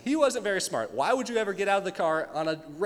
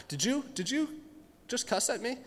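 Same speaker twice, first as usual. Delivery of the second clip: higher, prissy offended voice; mock offended; 5 semitones higher, 5 dB quieter than usual. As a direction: play the indignant judge. Judge mocked by girl.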